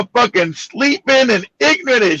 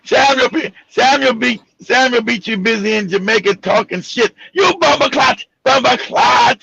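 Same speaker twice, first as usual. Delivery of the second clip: put-on Jamaican accent. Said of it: "my Jamaican accent sucks".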